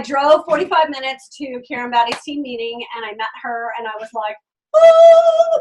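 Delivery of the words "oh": high, loud surprised oh; light up at the discovery; delighted oh. Retold or imitated. Meeting a kindred spirit.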